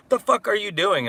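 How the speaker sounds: a shouted retold outburst; quoting dad yelling. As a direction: blurt it out in disbelief. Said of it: "her dad was saying".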